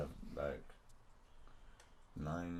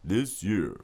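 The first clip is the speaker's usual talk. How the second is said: movie trailer voice; 3 dB louder than usual. Pretend. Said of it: "it's a trailer voice".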